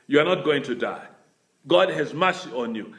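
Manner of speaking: lightly voiced prophet, pitched low; Nathan. Prophet telling guilty David he will live, lightly voiced, low. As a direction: give a low, subdued word of mercy. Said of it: "you remember Nathan said".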